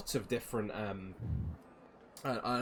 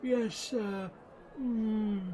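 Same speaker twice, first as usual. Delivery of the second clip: put-on high, fumbling old man voice; doddery gnome hunting for his license; flustered old gnome, high and hesitant; old gnome Silas; 9 semitones higher, 4 dB louder, slower than usual.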